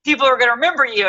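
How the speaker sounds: imitated producer. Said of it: "until the producer's like".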